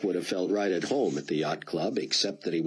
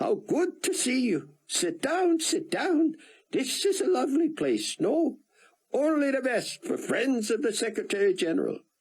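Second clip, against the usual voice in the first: put-on very high, exultant, thick Israeli accent. Greet your old friend Cameron at the booth by the window, in Chaim Rosenzweig's exultant thick Israeli accent. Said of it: "the Israeli exulted in his thick accent".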